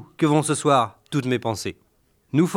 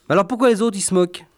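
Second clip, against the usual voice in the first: put-on higher, a puzzled little boy; child voice; 5 semitones higher, faster than usual. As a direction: ask like an innocent child. Son asks the father.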